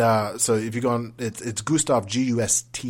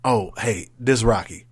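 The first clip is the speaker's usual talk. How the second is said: casual guy; 6 dB louder, slower than usual. Retold or imitated. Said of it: "in a very unprofessional voice".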